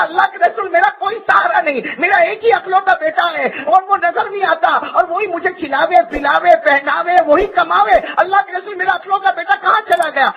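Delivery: high pleading mother, lightly voiced through tears; crying mother. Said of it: "روتے روتے کہا". (بوڑھی ماں کی طرح روتے ہوئے اونچی آواز میں فریاد)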